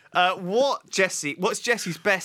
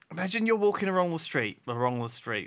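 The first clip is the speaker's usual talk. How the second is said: mock Chinese accent. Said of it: "God, I went into a Chinese then".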